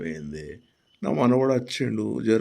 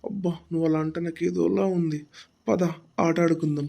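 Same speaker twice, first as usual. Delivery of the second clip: higher, coy woman's voice; a lightly played coy lady calling him to play; flirty woman; 5 semitones higher than usual. (రంగుతో సరసంగా మాట్లాడే స్త్రీ గొంతు)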